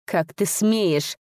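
slow, hissed outrage; an old nobleman hissing at a mocking voice. A narrator's reading. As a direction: hiss it out, slowly and offended. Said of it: "зашипел человек".

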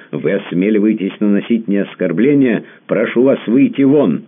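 high, loud outraged command; indignant order. Acted. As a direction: throw him out of the house. Baroness throws him out.

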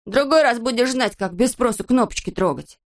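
irritated reprimand; cross telling-off. Acted. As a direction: scold him for meddling. Angry character keeps scolding.

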